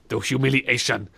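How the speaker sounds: "humiliation" broken into separate syllables; mock mispronunciation. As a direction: pronounce "humiliation" with stilted, over-separated syllables. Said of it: "This is how you pronounce words".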